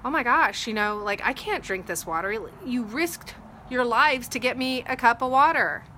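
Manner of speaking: overwhelmed by their sacrifice; moved amazement. Retold or imitated. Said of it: "he was like".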